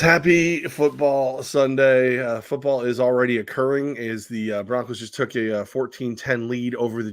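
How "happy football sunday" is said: show opener shout. Pretend. Host opening a sports show, loud drawn-out call. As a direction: belt out the show's name to kick off.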